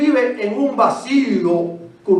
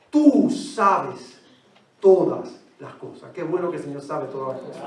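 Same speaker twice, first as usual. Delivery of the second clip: soft and sad; 7 semitones lower, 8 dB quieter than usual. Acted. Peter's sad answer, dropping soft.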